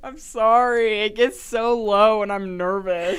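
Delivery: loud, high, amused protest; laughing apology. Real, not acted. Apologizing while both laugh.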